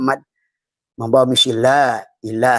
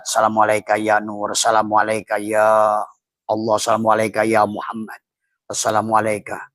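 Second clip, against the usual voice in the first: prayerful recitation. Acted. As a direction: recite each greeting like a devotional litany. Chanted greetings in prayer.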